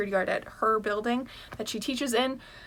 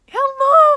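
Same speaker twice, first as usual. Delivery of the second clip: shrill, very high, loud voice crack; 16 dB louder than usual. YouTuber greeting viewers at the start of a reading vlog, voice crack. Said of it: "that was a great voice crack".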